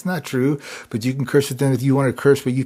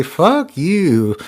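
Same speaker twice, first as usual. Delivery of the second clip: higher, emphatic buddy-style curse; buddy's swear; 4 semitones higher, 4 dB louder than usual. Shown as a demonstration. Buddy swearing at a friend, higher and playful. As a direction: toss it at a pal, pitched up. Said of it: "a buddy might say".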